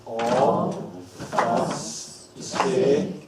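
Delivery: extremely slow, every syllable of "obfuscated" held long; exaggerated slow-motion syllable talk. Shown as a demonstration. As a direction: draw "obfuscated" right out, pausing between syllables. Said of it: "even more slowly".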